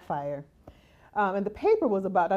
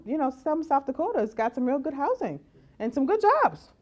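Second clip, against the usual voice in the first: higher, sarcastic advice to go elsewhere; mock the smug advice, higher pitched; mocking dismissive homeowner; 4 semitones higher than usual. Homeowner waving off renters, sarcastic and higher.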